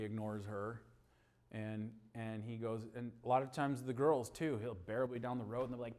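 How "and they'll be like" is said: ordinary talk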